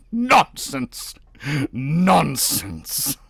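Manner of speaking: high, loud dismissal; scoffing. A narrator's reading. Navagin dismissing his wife, scoffing loudly. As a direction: brush it aside.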